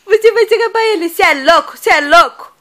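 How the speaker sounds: put-on loud, fast baby retort; teasing mock retort; grumpy baby voice. Coaching baby to say it.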